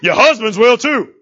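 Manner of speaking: slow, laughing jab; laughing tease. Real, not acted. Preacher teasing the husbands in the pews, laughing.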